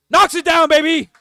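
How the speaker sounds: loud, high burst of excitement; celebratory shout. Real, not acted. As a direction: yell it out as the shot drops. Celebrating a made jump shot.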